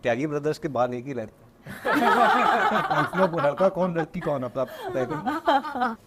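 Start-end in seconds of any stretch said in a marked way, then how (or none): 1.6-6.0 talking through laughter, higher; amused, voice lifted by real laughter; laughing. Real, not acted. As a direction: laugh your way through the words. Joking after a burst of laughter.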